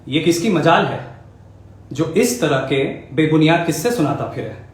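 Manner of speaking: understated anger of offended parents, retold; mild retold indignation. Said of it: "ये सुनकर वो बहुत भरम हुए". (हल्के गुस्से में दोहराया गया उलाहना)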